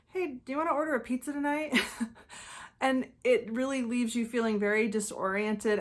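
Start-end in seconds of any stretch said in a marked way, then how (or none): 0.1-1.8 quick, light and a bit higher, as if nothing happened; casual breezy offer. Retold or imitated. Narcissist on the couch acting like nothing happened, breezy. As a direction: toss it off breezily like all is fine. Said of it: "say something like".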